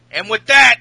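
mock insult shout. Host imitating Cass insulting Enzo, slow spelled shout. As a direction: build to a screamed final word. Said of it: "Cass says".

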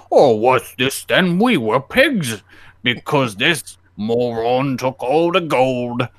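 lightly voiced slow villagers; a hint of puzzled folk, slow; villagers' voice. Freed villagers blaming the simpleton, in slow put-on voices. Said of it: "they're all like".

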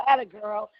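bright praise. Retold or imitated. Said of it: "I go".

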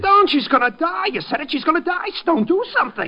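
frantic shout. Acted. Harry begs Stone to stop the execution, frantic shout. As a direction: yell in terror for her life.

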